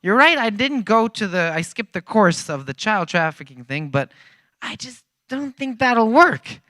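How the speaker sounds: stunned traveler arguing with his guide; incredulous protest. Retold or imitated. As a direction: plead with disbelief. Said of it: "And I'm like".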